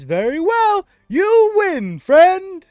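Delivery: high, loud goblin conceding. Acted. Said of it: "he says".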